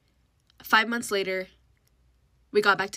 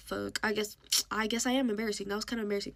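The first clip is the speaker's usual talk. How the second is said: sheepish admission; 6 dB quieter, faster than usual. Retold or imitated. Retold sheepish admission after being scolded.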